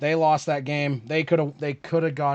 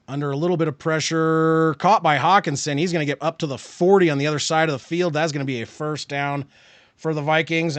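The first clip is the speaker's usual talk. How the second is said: lively live football call, a bit louder; sportscaster calling the drive; play-by-play; 4 dB louder than usual. Acted.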